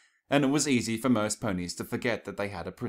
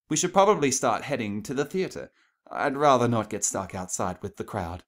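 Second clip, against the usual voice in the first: Rarity's voice; 4 semitones higher, 5 dB louder than usual. Acted. Rarity urges leaving.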